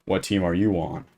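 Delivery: put-on lightly menacing, well below the kid's squeal; mock scary voice. Tall camper towering over a kid in the woods, playfully scary. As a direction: intimidate the kid with understated menace. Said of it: "In my most scary voice".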